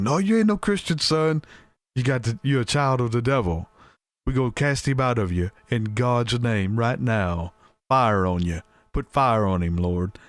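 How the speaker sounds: a hint of a pastor rebuking the devil; fiery preacher. Pastor casting out demons.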